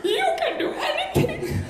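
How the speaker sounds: put-on high, Indian-accented proud father; Indian dad accent. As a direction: play the moved Indian dad. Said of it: "He's like".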